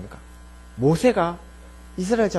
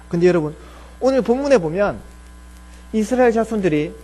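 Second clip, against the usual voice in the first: ordinary talk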